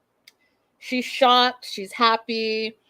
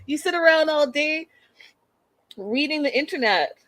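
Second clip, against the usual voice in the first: mocking rant; 3 semitones higher than usual. Real, not acted. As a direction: tear into him with contempt. Mocking Nick's speech, ranting at him.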